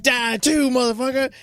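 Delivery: hammed-up battle cry; mock attack yell. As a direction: yell it like a cartoon exterminator. Imitating the wasp killer attacking.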